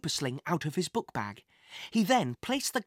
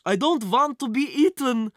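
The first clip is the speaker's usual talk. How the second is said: high, loud frightened cry; panicked scream; 5 semitones higher, 6 dB louder than usual. Acted. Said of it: "screamed the man".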